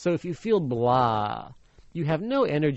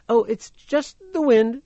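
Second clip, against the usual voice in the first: put-on louder, slow boyish reply; Hansel, loud and slow; 7 semitones higher, 6 dB louder than usual. A narrator's reading. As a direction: answer slowly and loud, covering up. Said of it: "answered Hansel".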